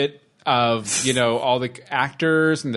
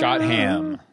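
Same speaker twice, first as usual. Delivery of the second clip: high voice. Acted. Mock pronunciation.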